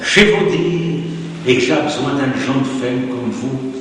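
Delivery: lively read-aloud of a rustic love letter. Acted. Lecturer reading the farmer's love letter aloud, lively. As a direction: read the suitor's letter with relish.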